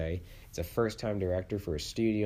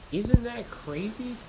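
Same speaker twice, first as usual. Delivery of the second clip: surprised; 4 dB louder, slower than usual. Real, not acted. Reacting to the box office flop.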